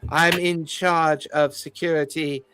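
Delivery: a lightly voiced condescending fey noble; polite, fussy and faintly hesitant officialdom; haughty fey official. GM as fey security chief greeting the party, lightly haughty. GM voices Sir Thorned Shade.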